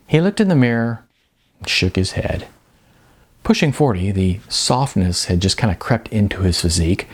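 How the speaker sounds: measured audiobook reading with dramatic pauses; story narration. A narrator's reading. Author reading his novel aloud to listeners, measured narration.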